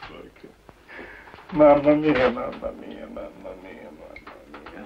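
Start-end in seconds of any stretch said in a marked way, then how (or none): 1.5-4.9 fading moan. Acted. Sick man moaning, fading away.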